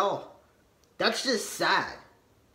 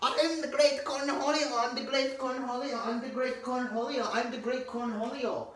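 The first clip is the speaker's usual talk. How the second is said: Cornholio voice; 5 dB quieter than usual. Retold or imitated. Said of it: "You keep on doing this".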